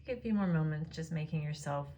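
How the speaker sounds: calm, unhurried Yoga Nidra guidance; guided meditation. Real, not acted. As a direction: guide them gently into rest, pausing between phrases. Leads a Yoga Nidra practice.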